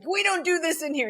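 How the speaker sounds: high firm teacher voice; mock stern teacher. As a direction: lay down the rule. Scolding a tall teen.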